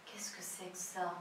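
hushed, low-pitched astonishment; soft, run-together question in disbelief; surprised. Retold or imitated. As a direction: imitate the film character's quick, stunned reaction. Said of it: "Ele tá surpreso".

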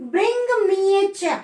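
a teacher demonstrating an order before its tag question; order example. Shown as a demonstration. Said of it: "rising intonation को mark करना है".

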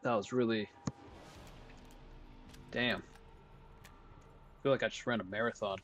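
breathless after intense play; winded, catching breath between words. Real, not acted. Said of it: "Oh, I'm out of breath, too".

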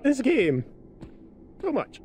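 slow, high, drawn-out whine; whiny complaint. Real, not acted. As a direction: whine it in despair. Frustrated by the horror game.

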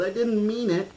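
put-on high, pleading little girl's wail. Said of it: "Lex wailed".

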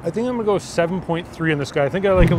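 talking between bites; chewing while speaking; mouth full, chewing. Real, not acted. Seen 2: Bite taken at -4; mouth looks busy chewing early in labelled words.

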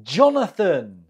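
"Jonathan" stressed on JON, then falling; stress on first syllable. Shown as a demonstration. Teacher models a name for the pronunciation round, "Jonathan" stressed on first syllable. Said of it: "The stress is on the first syllable".

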